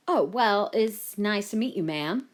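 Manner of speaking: a polite, surprised statesman; US President. A narrator's reading. The President greets the Prime Minister's mother, courteous.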